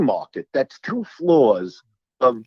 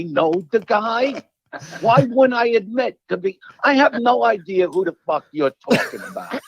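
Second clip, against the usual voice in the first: exasperated rant; 5 semitones higher than usual. Retold or imitated. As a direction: get fed up toward the end. Ranting at insistent stranger.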